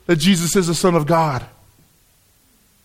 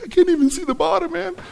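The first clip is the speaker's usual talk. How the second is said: retold amazement; 12 semitones higher, faster than usual. Retold awe at the canyon.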